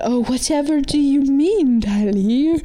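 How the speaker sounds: high, slow, drawn-out, snide, falsely innocent tone. Recapping a show, acting out one girl pressing another, in a mock-bitchy Azula voice. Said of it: "she's like".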